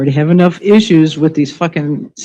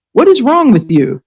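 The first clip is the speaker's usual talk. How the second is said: outraged repeat; 5 semitones higher than usual. Real, not acted. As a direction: blast the question a second time. Repeated outraged question, louder.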